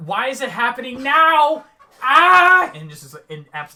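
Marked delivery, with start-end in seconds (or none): 0.0-2.7 very high, very loud, drawn-out pained scream. Voicing a character in pain on the bed: screaming in pain. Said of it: "she's just screaming, like".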